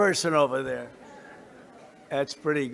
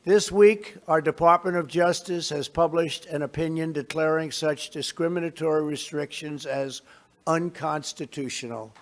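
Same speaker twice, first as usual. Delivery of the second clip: measured, formal address to a crowd; podium speech; 2 semitones higher than usual. Real, not acted. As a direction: deliver it like prepared remarks.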